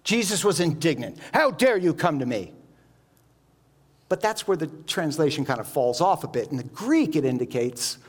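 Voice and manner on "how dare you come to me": a hint of an angry rebuke, only lightly voiced; mildly angry. Shown as a demonstration. Preacher shows how the translation makes Jesus sound angry with the leper, mildly rebuking. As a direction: brush the man off with mild offence. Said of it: "makes Jesus sound kinda angry".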